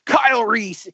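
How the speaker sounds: mock gravelly Batman yell; hammed-up Batman impression. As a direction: imitate Bale's Batman growl. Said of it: "doing the Batman voice throughout".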